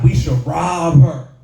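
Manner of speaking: drawn-out, loud "rob" in "We should rob her"; imitating sister. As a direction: imitate sister landing slowly and loudly on "rob". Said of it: "She said it just like that".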